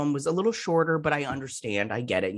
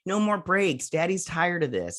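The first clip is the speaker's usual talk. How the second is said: mock pleading; 6 semitones higher, slower than usual. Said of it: "And I was like".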